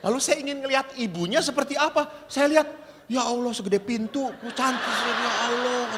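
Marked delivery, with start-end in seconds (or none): 3.1-5.9 amazed exclamation through laughter; laughing amazement. Retold or imitated. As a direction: gasp at her size while laughing. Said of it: "kata saya itu".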